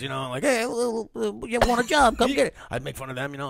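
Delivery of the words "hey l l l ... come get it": high, fast mock wiseguy voice with a stutter; mock the neighborhood tough guy; mobster impression. A kid mocks the stoop mobsters to their faces, fast and hammed-up. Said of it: "I used to do, like, impressions".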